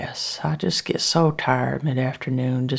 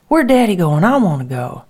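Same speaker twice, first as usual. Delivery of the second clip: put-on high eager child asking after Daddy; a small daughter pleading to go; little girl voice; 5 semitones higher, 7 dB louder than usual. Little daughter asks her mother where Daddy is going, eager child voice.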